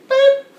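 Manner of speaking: short, loud beep; imitated train horn. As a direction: toot like a freight train. Imitates freight train horn after simile.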